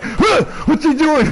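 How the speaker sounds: high, slow puzzled voice; confused high voice. Retold or imitated. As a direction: act baffled and slow. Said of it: "so she's like".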